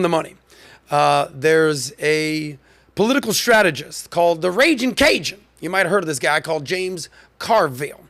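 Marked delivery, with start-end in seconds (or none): 4.4-5.4 high, swooping nickname reveal; showy nickname reveal. Real, not acted. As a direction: announce it like a ring nickname. Announcing the strategist's nickname.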